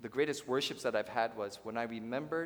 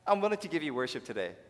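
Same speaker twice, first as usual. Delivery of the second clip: mock grand offering; 4 semitones higher, 4 dB louder, faster than usual. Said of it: "So let me say".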